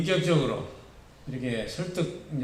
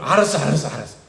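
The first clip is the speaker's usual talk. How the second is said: loud, hurried agreement; brisk, louder interrupting okay; eager quick assent; 5 dB louder, faster than usual. Acted. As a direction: cut in eagerly, saying yes at once. God readily cutting a prayer short.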